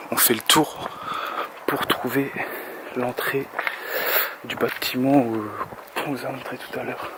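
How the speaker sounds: puffing between words; out of breath. Real, not acted. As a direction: talk while short of breath. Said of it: "je respire comme un gros porc".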